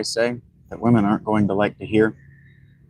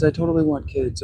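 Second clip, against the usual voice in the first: mock girlfriend repeat; 5 semitones higher than usual. Mocking ex-partner's promise.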